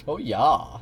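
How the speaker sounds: lightly put-on German accent; stereotype German accent. Shown as a demonstration. Streamer showing the German they do, stereotyped accent. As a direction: do a little spin on a stereotyped German. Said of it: "that's kind of the one I do".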